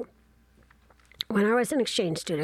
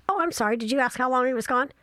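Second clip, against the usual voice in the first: sarcastic; 5 semitones higher, faster than usual. Pretend. Sarcastic aside to audience.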